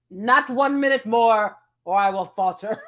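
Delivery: hammed-up archaic lament; mock a Victorian lady about to faint; theatrical olde-English swoon; old-fashioned dramatic. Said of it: "Thou art, like, what?".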